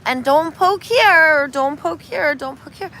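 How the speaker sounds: patient dad showing how; lightly voiced instructing father; teaching dad. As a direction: coach the child gently. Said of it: "the dad shows him".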